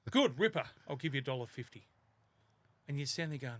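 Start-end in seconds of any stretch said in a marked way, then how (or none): 0.1-1.9 pleased dad. Retold or imitated. Dad pleased, voiced in story.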